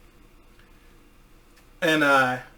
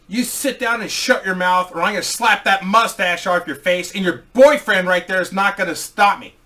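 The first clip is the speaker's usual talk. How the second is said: heel taunt; 5 semitones higher, 6 dB louder than usual. Retold or imitated. Heel taunting heckler in crowd.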